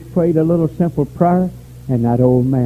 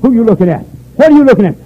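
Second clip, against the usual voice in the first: calling out; 10 semitones higher, 7 dB louder, faster than usual. Acted. Preacher calling out congregation.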